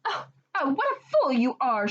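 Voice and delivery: wife snapping at her foolish husband; angry shout. Acted. Wife scolds husband over wasted wish, shouting. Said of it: "shouted the woodcutter's wife".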